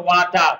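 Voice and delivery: "ওয়াটার" as wa-tar with a plain South Asian t; regional mispronunciation. Shown as a demonstration. Teacher shows a local habit to avoid, "ওয়াটার" mispronounced as wa-tar. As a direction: say "ওয়াটার" the Bangladeshi-Indian way, wa-tar. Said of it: "এগুলা ভুলভাল উচ্চারণ".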